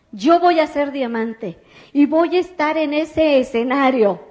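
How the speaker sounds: excited retold shout; retold yell like crazy. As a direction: shout the dream from the table, half-acted. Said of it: "empiezo a gritar como loca".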